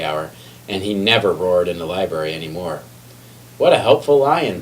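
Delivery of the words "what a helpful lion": bright, higher, admiring exclamation; cheerful townsfolk. A narrator's reading. Library patrons praising the lion, bright and admiring. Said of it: "people said".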